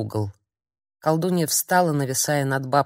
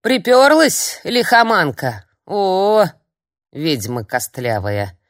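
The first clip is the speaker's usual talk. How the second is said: put-on high, loud cranky old hag; cranky old woman scolding; old crone's scolding; 3 semitones higher, 6 dB louder, slower than usual. A narrator's reading. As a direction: snap at the guest like a grumpy old crone.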